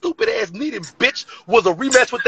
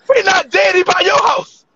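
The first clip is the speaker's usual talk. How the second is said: high shouted jab; 6 semitones higher, slower than usual. Real, not acted. Roast battle insult shouted.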